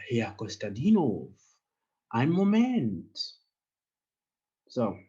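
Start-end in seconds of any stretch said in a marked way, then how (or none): 2.1-3.4 acted receptionist. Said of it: "Ah, ja, Herr Konstantinov".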